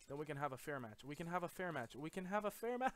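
desperate pleading. Pretend. Gamer bargaining with attackers, rising desperate plea. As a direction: build into a panicked whine.

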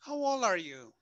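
put-on "How old are you?" high on "old", then falling away; falling tune. Shown as a demonstration. Teacher contrasts question tunes for the class, falling on "old". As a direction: stress "old" and let it drop. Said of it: "Es diferente a decir".

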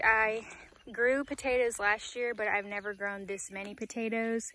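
breathless from digging, out of breath; out of breath, short shallow breaths. Real, not acted. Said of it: "Sorry, I'm out of breath".

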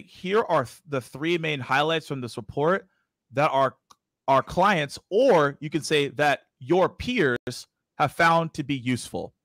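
slow dictation with pauses. Real, not acted. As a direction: draft it aloud slowly, phrase by phrase. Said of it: "So I'll slow it down".

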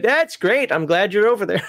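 high-pitched uneasy approval; uneasy mock approval. Man calling to friends on a cliff edge, uneasy mock approval. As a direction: act out being glad from a safe distance.

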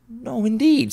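high, eager agreement; Mrs Dilber agreeing. A narrator's reading. Mrs Dilber agreeing with the woman, high. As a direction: chime in quickly. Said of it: "said Missus Dilber".

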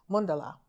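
"mundala" with first vowel as in "sun", stressed first; Sanskrit pronunciation. Shown as a demonstration. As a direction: say "mundala" as MUN-duh-la. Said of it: "the pronunciation in Sanskrit".

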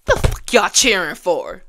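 high, loud, indignant yelling at the crowd; incredulous shouting; outraged scolding. Real, not acted. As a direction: scold the audience for cheering. Scolding a cheering audience.

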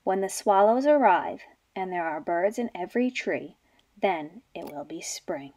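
low, fading sleepy murmur; half-asleep mother bear mumbles to her cub. Acted. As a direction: trail off into a drowsy whisper. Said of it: "mumbled sleepily".

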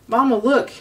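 high excited squeak; a little gosling squeaking with joy. A narrator's reading. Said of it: "he squeaked as his feet left the ground".

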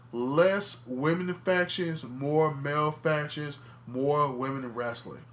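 slow, word-by-word declaration; deliberate. Real, not acted. Stating his bold opinion to the listeners, slow and deliberate. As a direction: lay it out slowly and firmly.

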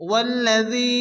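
الذي with the ذي held one beat; lengthened dhi. Shown as a demonstration. Teacher showing students the one-alif stretch. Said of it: "এক আলিফ টেনে পড়তে হবে".

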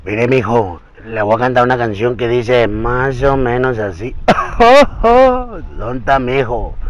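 lightly voiced old ranchero; a famous ranchero singer's voice. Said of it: "la señor del Vicente Fernández".

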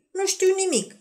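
mirare sus, pe ton ridicat; exclamă mirată, cu vocea urcată; exclamație mirată. A narrator's reading. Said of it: "exclamă Evelin mirată". (Evelin exclamă mirată, sus)

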